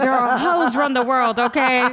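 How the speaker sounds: slowed, laughing through the words; slow, giggling tease. Real, not acted. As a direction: laugh it out, teasing. Joking banter, laughing.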